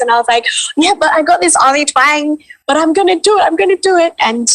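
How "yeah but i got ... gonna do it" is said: pitched-up, eager re-enactment; eager determination. Retold or imitated. Actor retelling her reply about a Ghanaian voice, eagerly determined. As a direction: act out plucky resolve, voice lifted high.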